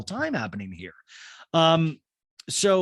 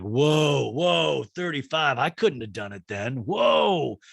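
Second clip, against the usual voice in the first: mock shock; 3 dB louder, slower than usual. Host imitating Shep reacting to a baby at thirty-five, mock shock. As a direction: gasp at the number like it's absurd. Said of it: "Shep's like".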